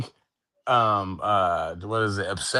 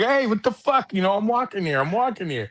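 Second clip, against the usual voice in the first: much higher mock yell at the car; Dustin Hoffman yelling; 9 semitones higher than usual. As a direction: yell it like he was really hit. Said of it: "A fucking real thing hit him and he was like".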